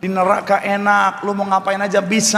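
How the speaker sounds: lightly voiced tempting devil; devil's enticement. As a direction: coax them along, drawing out the invitation. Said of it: "Iblis bilang". (sedikit menirukan iblis yang membujuk)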